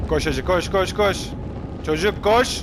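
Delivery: loud, high urgent yelling; frantic shouting. Real, not acted. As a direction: yell run as if chased. Urging character while chased.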